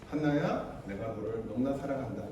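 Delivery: soft, low loving words with 너무나 leaned on; tender love. Retold or imitated. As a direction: say it gently, like holding a child. Jesus speaking tenderly.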